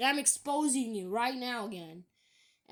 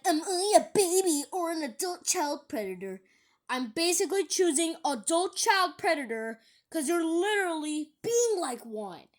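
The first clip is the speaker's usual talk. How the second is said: higher-pitched indignant reading; heated retort; 5 semitones higher, 4 dB louder than usual. Acted. Vlogger reading a commenter's accusing reply, heated. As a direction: fire it back, pitched up.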